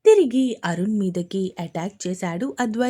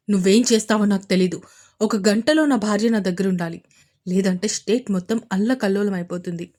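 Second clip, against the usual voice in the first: louder and fast, a hard threat; stern warning; 4 dB louder, faster than usual. Acted. Advaith threatens the commissioner on the phone, warningly. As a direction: warn him there will be chaos. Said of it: "హెచ్చరిస్తున్నట్టే చెప్పాడు".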